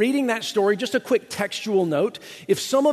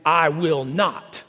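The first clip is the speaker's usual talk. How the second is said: defiant refusal; 3 semitones lower, much slower than usual. Retold or imitated. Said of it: "shocking disrespect to speak to a dad like that".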